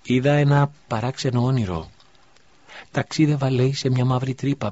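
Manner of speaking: put-on a boy eagerly telling his dream. A narrator's reading. (αγόρι που διηγείται όνειρο, πιο ψηλά)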